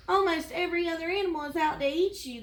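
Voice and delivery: fast, high-pitched gazelle outburst; agitated exclamation. Acted. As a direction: exclaim it in a nervous rush. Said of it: "the gazelle exclaimed".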